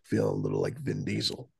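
hoarse, breathy near-whisper; sick voice barely there; voice giving out. Real, not acted. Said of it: "I'm kinda losing my voice".

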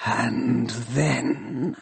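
soft, grinding machine question; dark machine voice. Acted. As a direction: rasp the question quietly. Shrike's voice held.

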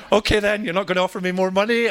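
cheeky laughing jest; joking. Pretend. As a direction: tease the boss through a laugh. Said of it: "I'm joking".

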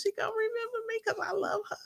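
quick breathy mock whisper. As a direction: whisper it like a secret. Joking aside.

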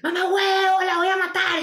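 furious kidnapper yelling down the line; threatening kidnapper. Retold or imitated. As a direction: bark the threat like a thug on the phone. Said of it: "Y el otro, y que".

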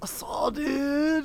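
slow breathy whisper. Pretend. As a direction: hush it out slowly. Whispered joke reply.

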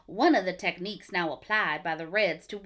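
failed 1950s mid-Atlantic accent; a shaky Katharine Hepburn mid-Atlantic read. Shown as a demonstration. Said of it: "my nineteen fifties, like, Katharine Hepburn voice".

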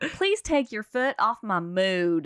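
slow Southern drawl; Southern accent. Acted. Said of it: "if you put a Southern accent to it".

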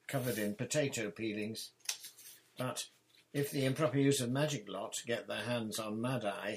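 pressing a colleague to hurry; Amos Diggory voice. Acted. Diggory urging Arthur.

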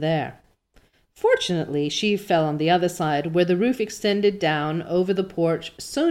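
measured, expressive storytelling; story narration. A narrator's reading. Reader telling listeners of Anne's fall, story narration. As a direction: read it like an audiobook narrator. Reads the novel aloud.

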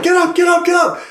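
high, hammed-up soldier yelling; mock alarm shout. Soldiers roused by an alarm, high hammed-up yell. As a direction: bark it like a panicked drill order.

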